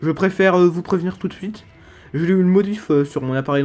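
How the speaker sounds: lisping from a new dental brace; slushy lisp on the s sounds. Real, not acted. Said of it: "je zozote et que j'ai quelques difficultés".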